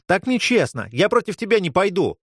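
high whiny protest; wailing. A narrator's reading. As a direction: wail it like a scared kid. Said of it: "Мелкий завопил".

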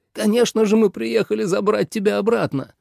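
the anxious father pleading; worried father. A narrator's reading. Father voiced pleading son. (встревоженный отец, выше)

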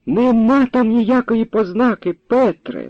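put-on high, slow call from the old woman; grandma calling out to Petro. A narrator's reading. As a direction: shout it across the yard. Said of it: "нагукала баба Христина".

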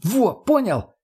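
high, satisfied exclamation; pleased. A narrator's reading. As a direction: crow it like a proud teacher. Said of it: "с довольным лицом прокомментировала".

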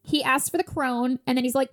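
normal talking voice

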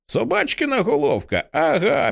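put-on very high-pitched excited kid voice; child chiming in. A narrator's reading. Boy echoing the find of the dog's head, high childlike cry. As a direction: pipe up high like an eager child. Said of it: "підхоплює Дон Білс".

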